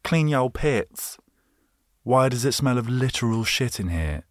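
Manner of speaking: slow, high, disgusted recoil. Retold or imitated. Reacting to a smelly room, mock disgust. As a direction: pull back from a bad smell. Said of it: "you think".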